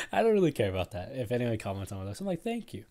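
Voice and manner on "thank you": high-pitched, awkward little thank you. Retold or imitated. Speaker answering a compliment with no idea how, awkward high thanks. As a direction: squeak out an awkward thanks, much higher. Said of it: "no clue how to respond".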